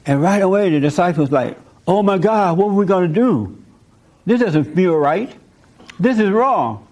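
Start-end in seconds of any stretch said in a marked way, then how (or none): 1.9-6.9 mock panic, pitched up; freaking out. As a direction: imitate worried disciples starting to freak out. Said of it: "they start freaking out".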